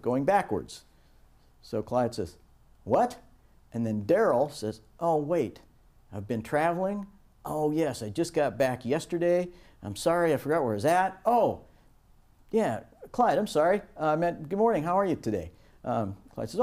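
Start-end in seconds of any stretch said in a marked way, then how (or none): 2.8-3.2 puzzled what. Acted. Clyde asking for clarification. 5.0-15.5 high, bright apologetic colleague; apologetic cheer. Acted. Daryl apologising to Clyde for the foreign greeting, high and flustered.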